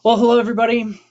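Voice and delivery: bright, loud anchorman greeting; newscaster voice. Pretend. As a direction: open like a TV news anchor. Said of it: "my best newscaster voice now".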